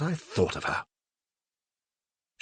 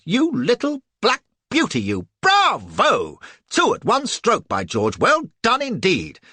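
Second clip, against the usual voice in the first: much higher, louder exultant praise; gleeful cheering; 9 semitones higher, 6 dB louder, slower than usual. Acted. Narrator cheers Cassie, spinning her.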